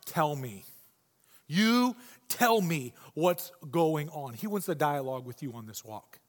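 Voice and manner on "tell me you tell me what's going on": gentle. Retold or imitated. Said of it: "Jesus is like".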